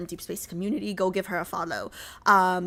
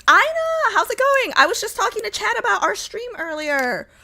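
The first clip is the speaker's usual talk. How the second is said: high, loud sing-out hello; high-pitched delighted welcome; excited greeting; 11 semitones higher, 4 dB louder than usual. Real, not acted. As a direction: call out to a friend in a raised voice. Greeting a friend who arrives.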